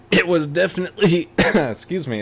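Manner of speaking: choking mid-sentence; coughing. Real, not acted. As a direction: clear the throat while speaking. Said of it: "as I'm choking on myself here".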